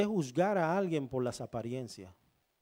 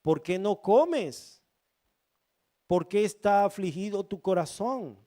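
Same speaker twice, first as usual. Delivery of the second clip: tender plea; 3 semitones higher, 4 dB louder than usual. Acted. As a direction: ask gently, drawing each question out. Husband pleading with weeping wife.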